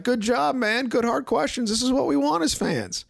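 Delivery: high, eager fan praise; cheering fan. Retold or imitated. Fans praise the reporter's tough questions, eagerly. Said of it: "saw fans tweet".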